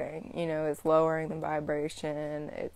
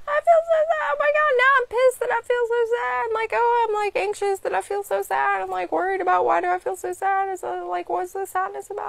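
high, loud panicky voice that climbs higher and higher; mock anxious spiral; 9 dB louder, faster than usual. To viewers, acting out a feeling spiral as a much higher, louder panic. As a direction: spiral into frantic worry.

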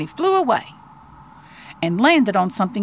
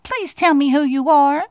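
higher, eager little mouse; wondering little mouse, pitched up; awed mouse plea; 5 semitones higher, 4 dB louder than usual. Acted. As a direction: ask in mild storybook amazement. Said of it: "he gasped".

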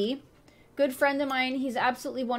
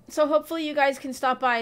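hiccups; 3 semitones higher than usual. Real, not acted. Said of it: "Sorry, I have hiccups".

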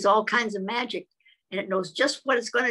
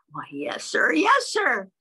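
sheep answers; 3 semitones higher, 3 dB louder than usual. Acted.

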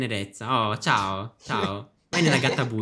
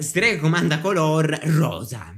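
game call; 2 semitones higher, slower than usual. Acted. Witch calling out game command.

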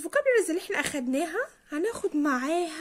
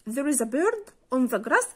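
slow example read; much slower than usual. Shown as a demonstration. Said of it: "example repeated".

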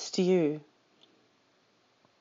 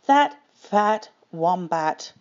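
slow, gloating reveal; sly and slow; slower than usual. Acted. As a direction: savour each word slyly. Dingo reveals plan slowly.

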